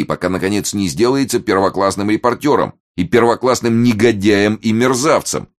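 high, aggrieved declaiming; impassioned protest. A narrator's reading. Martin complains that the slanderer came to him, impassioned. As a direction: protest at length, pitched well up.

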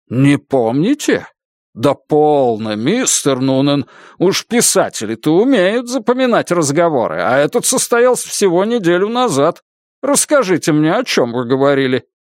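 lightly voiced prosecutor, incredulous; pressing interrogator. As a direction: press the witness with rising incredulity.

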